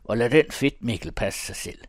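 loud, uncontrolled jab; losing self-control. Acted. Thomas jeering at his rival, losing self-control. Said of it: "uden at kunne beherske sig".

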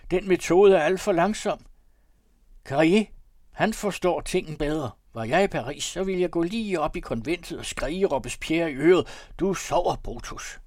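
loud, high-pitched political tirade; impassioned shouted debate; shouting. A narrator's reading. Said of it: "råbte Fjaltring".

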